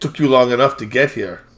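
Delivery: put-on heavily accented English, strong foreign accent. Voicing a woman greeting Lestrade as he walks in: heavily accented English. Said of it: "she says in a very thi-, heavily accented English".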